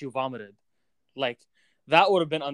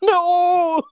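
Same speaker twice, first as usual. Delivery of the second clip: high, loud disbelieving no; shocked laughing no; shocked cry; 8 dB louder than usual. Real, not acted. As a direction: shriek it through laughter. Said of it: "Oh, no!".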